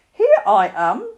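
loud growly bear; gruff bear announcing himself. A narrator's reading. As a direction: growl it out heartily. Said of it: "said a growly voice behind him".

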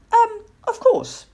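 high, slow, hesitant little voice; halting childlike squeak; uncertain owlet. A narrator's reading. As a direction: agree awkwardly, covering your doubt. Owlet pretending to like night creatures.

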